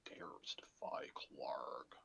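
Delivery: hushed, slow whispered echo. Pretend. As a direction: breathe the words under your breath slowly. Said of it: "echoes the line in a whisper".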